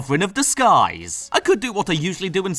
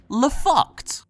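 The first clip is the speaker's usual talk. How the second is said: mock French; 7 semitones higher than usual. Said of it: "if you will pardon my French".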